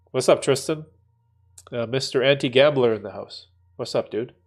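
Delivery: blocked nose, stuffy voice; congested. Real, not acted. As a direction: talk through a stuffed-up nose. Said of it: "I'm all, uh, congested still".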